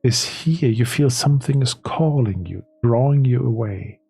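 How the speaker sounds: deliberate, dramatic narration, fading at the end; game master storytelling. Acted. Game master describes a strange vision to players, dramatic storytelling. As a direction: draw listeners into an eerie vision.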